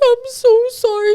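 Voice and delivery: high, whiny mock apology; imitating sad friend. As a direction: squeak out a guilty apology like the friend. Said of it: "She's like".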